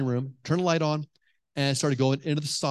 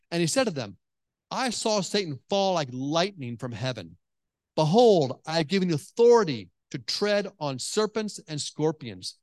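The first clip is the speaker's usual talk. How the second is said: scripture reading. Acted. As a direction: read the passage solemnly to the congregation. Reads Luke ten aloud.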